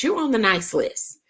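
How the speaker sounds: ordinary talk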